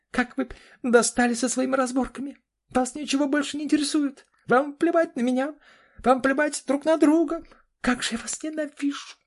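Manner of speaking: пронзительный крик, очень высоко и громко; ори на родителей от отчаяния; заорала что есть мочи. Acted. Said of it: "заорала Карина". (дочь кричит на родителей, очень высоко и громко)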